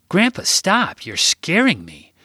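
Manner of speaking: put-on high child voice calling out; a child pleading with grandpa to stop; small boy cries out in fright; scared little boy.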